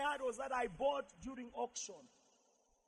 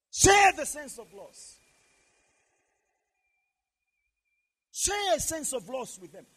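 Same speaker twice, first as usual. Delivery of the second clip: forceful, raised exhortation; preach; 3 semitones higher, 9 dB louder than usual. Real, not acted. Pastor urges congregation not to pretend to be immune, forceful preaching. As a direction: drive each warning home to the congregation.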